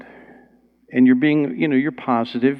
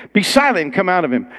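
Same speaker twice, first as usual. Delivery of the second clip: stern rebuke; 4 semitones higher than usual. Acted. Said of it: "Jesus rebuked him".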